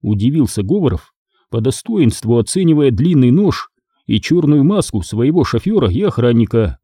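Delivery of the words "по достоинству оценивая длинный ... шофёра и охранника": ordinary delivery, nothing marked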